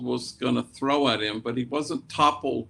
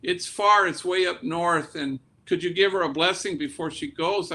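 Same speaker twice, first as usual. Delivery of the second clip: higher, anxious pleading father; a touch of panic, pitched up and urgent; retold panic; 4 semitones higher than usual. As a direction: voice a worried dad rushing his request. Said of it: "a little bit of panic in his voice".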